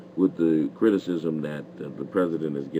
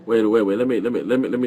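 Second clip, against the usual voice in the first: loud interruption; 5 semitones higher, 6 dB louder, faster than usual. Real, not acted. Host cuts off rambling caller.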